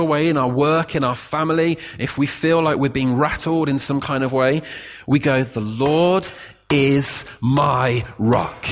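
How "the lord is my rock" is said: sincere claiming. Shown as a demonstration. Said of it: "That's appropriation".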